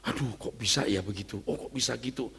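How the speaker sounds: low, soft acted wonder; hushed amazement. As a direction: marvel under your breath, as an awed listener. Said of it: "Anda kagum gitu".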